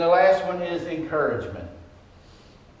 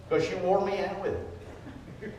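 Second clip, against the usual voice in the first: laughing; 9 dB quieter than usual. Real, not acted.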